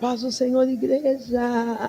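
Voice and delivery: mock refined, elegant lady voice. Imitating the refined lady preachers greeting the church: imitating a refined lady preacher. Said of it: "eu olhava aquelas mulheres finas".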